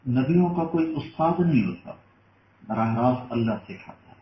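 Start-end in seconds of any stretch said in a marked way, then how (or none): 0.1-1.9 high, loud burst of preaching fervour; a sudden high, loud sermon peak; rising preaching cry. Real, not acted. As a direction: lift the voice and cry out to the crowd. Preacher's climax on the prophets.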